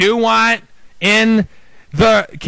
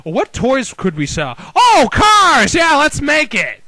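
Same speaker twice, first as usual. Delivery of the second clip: mock Disney executives; 4 semitones higher than usual. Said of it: "They thought".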